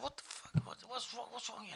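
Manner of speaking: confused waking thought. Retold or imitated. Acts waking confused at phone.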